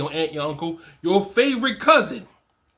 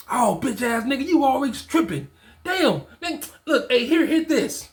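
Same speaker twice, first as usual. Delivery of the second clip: imitating the dismissive friend, pitch jumping higher; mocking the friend; 4 semitones higher than usual. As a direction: play the friend waving off the complaint. Friend brushes off his complaint.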